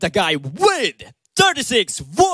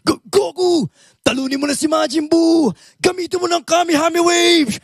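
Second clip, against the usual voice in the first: much higher, urgent cartoon voice; Dragon Ball character impression; 9 semitones higher than usual. Impressionist calling to Goku in a high cartoon voice. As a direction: cheer Goku on frantically. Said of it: "si Cleary ng Dragon Ball".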